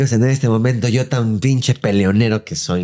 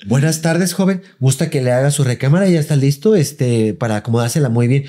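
overly polite maid; 3 semitones higher than usual. Retold or imitated. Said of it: "en modo servicio".

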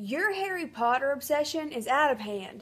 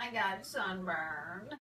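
whimpering; 5 semitones lower, 12 dB quieter, much slower than usual. Acted. Sunburn whimper.

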